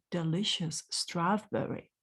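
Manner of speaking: usual speaking voice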